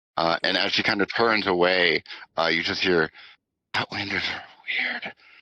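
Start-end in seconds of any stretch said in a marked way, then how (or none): 3.8-5.2 quietly muttered, mumbled, quieter. Voicing a mother turning away from the group: mumbled under her breath. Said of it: "as she kinda mumbles it under her breath".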